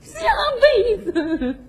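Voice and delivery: broken, sobbing singsong words; tearful, singsong. Acted. Woman putting off her suitor till the next life, sobbing singsong. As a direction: break the words up with weepy wailing. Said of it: "我还寻思谁唱歌呢".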